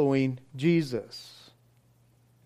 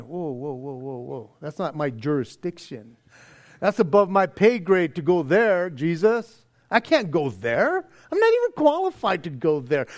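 mock backpedaling; 2 semitones lower than usual. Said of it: "You're going".

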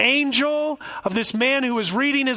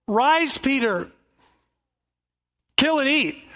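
voice of God; 3 semitones higher than usual. Acted. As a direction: order him like God from heaven. God commands again.

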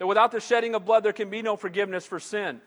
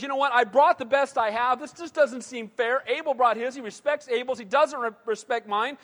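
mildly indignant, raised-pitch complaint; angry Cain. Retold or imitated. Cain complains about his rejected sacrifice, mildly angry. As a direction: lightly act out an aggrieved protest. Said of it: "Cain gets angry and says".

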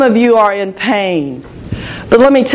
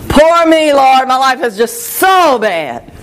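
exaggerated poor-me complaint; mock lamenting. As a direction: act out a pity party in prayer. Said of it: "just lamenting to the Lord about poor me".

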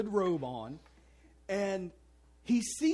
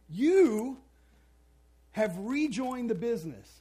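Godfather boss; 3 semitones higher, 6 dB louder than usual. Retold or imitated. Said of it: "It's like The Godfather".

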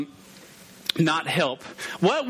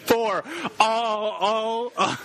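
imitating David; 3 semitones higher, much slower than usual. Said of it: "David just went".

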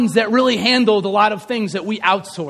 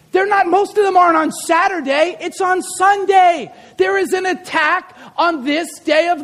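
raised-pitch, insistent sermon delivery; impassioned preaching; 5 semitones higher than usual. Real, not acted. Pastor challenging parents about their kids and Sundays, impassioned preaching. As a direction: preach it urgently, leaning on the key words.

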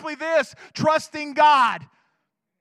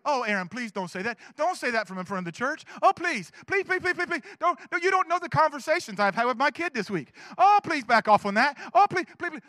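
mock pleading parents.

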